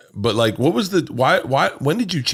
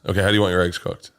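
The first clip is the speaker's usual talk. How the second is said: fast diner counter patter; diner waitress; 2 semitones lower, faster than usual. Acted. Waiter in Louis' bit taking Halston's order, fast patter. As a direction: rattle it off like a waitress. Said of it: "This was Louis' bit".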